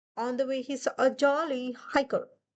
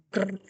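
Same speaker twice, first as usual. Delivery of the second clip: Wolf growling; 2 semitones lower than usual. Acted. Wolf tugging the shoe from the dog, mock growl. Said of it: "said Wolf".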